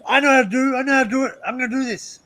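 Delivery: a half-hearted hillbilly accent, hammed up a little. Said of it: "my accent's not very good".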